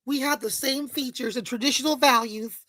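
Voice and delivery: lightly put-on mock-conservative voice. Commentator parodies the conservative men he criticizes, mockingly. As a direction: softly parody a traditional-values speaker.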